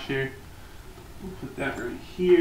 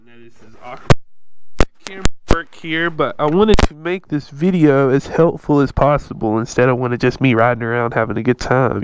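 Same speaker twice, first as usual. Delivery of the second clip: inside helmet; 7 dB louder than usual. Real, not acted. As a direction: voice muffled by helmet. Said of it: "I'll put the helmet on so y'all can see".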